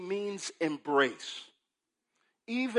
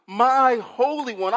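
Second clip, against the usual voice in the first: My Holy One, loud and high; soul cry; 5 semitones higher, 8 dB louder than usual. Acted. Preacher voicing Habakkuk in a loud high soul cry. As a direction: lift it up like a soul ballad. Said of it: "He takes a page from a singer's book".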